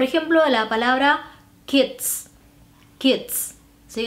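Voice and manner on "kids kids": put-on "kids" with a crisp final buzz-hiss ending; English DS ending. Shown as a demonstration. Teacher giving an English example of the Z sound, "kids" with its ds ending. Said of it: "la D S en inglés".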